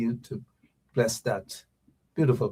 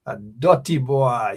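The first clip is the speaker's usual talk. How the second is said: with attitude; 3 dB louder, slower than usual. Shown as a demonstration. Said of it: "You gotta say it with an attitude".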